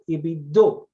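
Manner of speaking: "do" with a short O, no r; Gullah pronunciation. Shown as a demonstration. Explaining Gullah speech, "do" with a short O. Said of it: "In Gullah".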